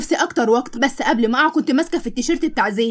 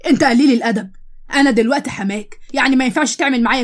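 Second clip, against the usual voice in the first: angry rebuke. Acted. Father insulted by son-in-law.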